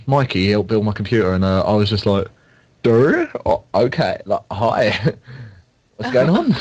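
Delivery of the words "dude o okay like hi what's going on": thrown, stumbling greeting rising high at the end; caught out. Retold or imitated. Student to an unexpected fan, caught out. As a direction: greet someone while caught off guard, pitch climbing. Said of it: "completely caught out".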